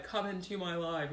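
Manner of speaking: ordinary talk, nothing marked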